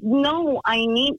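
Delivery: high, exasperated protest; exasperated outburst. Retold or imitated. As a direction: burst out in disbelief. Frustrated reply to the call worker.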